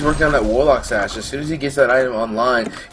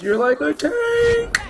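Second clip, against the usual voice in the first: voice cracking; much slower than usual. Retold or imitated. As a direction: pitch breaks way up, slowed. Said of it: "I lost my voice".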